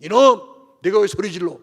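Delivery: loud mock rebuke, hardest on the first word; imitated angry telling-off; acted scolding. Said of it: "바디메오를 꾸짖어요".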